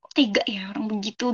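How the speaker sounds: soft whisper to herself; whispered thought. Retold or imitated. Wife thinking about her husband's betrayal, hurt whisper. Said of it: "Saya tuh sampai berpikir".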